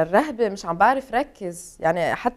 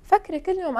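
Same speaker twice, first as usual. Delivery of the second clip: normal talking voice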